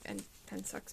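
ordinary delivery

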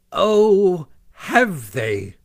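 a vain toad startled into outrage; indignant Toad. A narrator's reading. Toad hears strangers have taken his house, indignant. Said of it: "said Toad".

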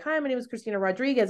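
her own name said with an English accent, quick. Shown as a demonstration. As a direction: Christina Rodriguez in flat English vowels, untrilled r. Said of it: "I say it with an English accent".

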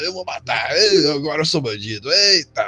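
mocking retold tough talk; dismissive mock-bandit quote; disdainful. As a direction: scoff while imitating his empty threats. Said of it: "olha o desdém na voz".

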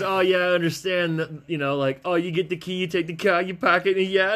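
loud imitation of a Massachusetts accent. Retelling a woman's accent demo to a co-host, loud mock Massachusetts accent. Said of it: "this chick from fucking Massachusetts".

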